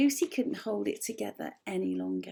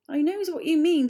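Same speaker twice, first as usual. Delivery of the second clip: giggling; 6 semitones higher, 9 dB louder than usual. A narrator's reading. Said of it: "who started giggling a little".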